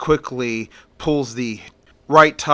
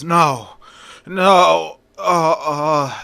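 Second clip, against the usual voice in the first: rising, strained cries as he freezes; choking out his last protests; panicked gasps; 3 semitones higher, 3 dB louder, much slower than usual. A narrator's reading. Priest freezing to death.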